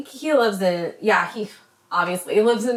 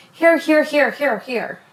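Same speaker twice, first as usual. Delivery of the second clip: coaxing offer; 6 semitones higher than usual. Retold or imitated. Imitating Dre offering a bite.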